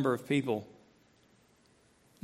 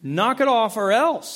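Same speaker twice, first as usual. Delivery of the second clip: louder, slow mock threat; parental threat; 4 semitones higher, 4 dB louder, slower than usual. Parent threatening squabbling kids, slow stern warning. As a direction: warn the kids, drawing it out. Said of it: "That's a threat".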